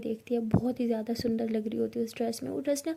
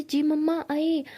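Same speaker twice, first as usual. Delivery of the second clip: higher, louder and drawn out, calling downstairs; 4 semitones higher, 4 dB louder, slower than usual. Acted. Girl answering her mother from upstairs, calling out loud. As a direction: shout back to mom from upstairs, slow and long.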